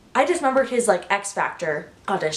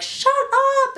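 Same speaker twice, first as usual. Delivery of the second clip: high, loud imitated shout of a crowd member; shrill-pitched mock shushing yell; 3 dB louder than usual. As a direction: snap it out like an irritated concertgoer. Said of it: "People started yelling".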